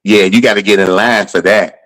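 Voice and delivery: curt imitation of a dismissive comic; dismissive brush-off. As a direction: brush off a newcomer, understated. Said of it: "He told me just like this".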